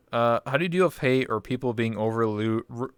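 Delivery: tripping over the words; stuttering. Real, not acted. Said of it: "I'm, like, stuttering".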